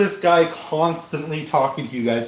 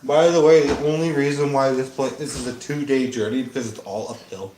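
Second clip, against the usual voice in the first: hillbilly voice; 4 semitones lower than usual. Acted. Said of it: "You like my hillbilly voice?".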